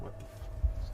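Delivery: breathless whispered swear; whispered curse. Real, not acted. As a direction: whisper it in disbelief. Stunned at the wrecked apartment.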